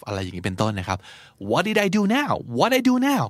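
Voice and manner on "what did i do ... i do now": high, exasperated what did I do now; accused friend protesting, exasperated. Shown as a demonstration. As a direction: whine it in mock disbelief. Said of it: "กูไปทำอะไรให้อีกล่ะ".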